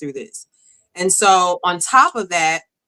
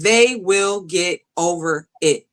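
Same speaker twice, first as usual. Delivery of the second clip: calm pastor's counsel; 2 semitones lower, slower than usual. Retold or imitated. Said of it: "He said".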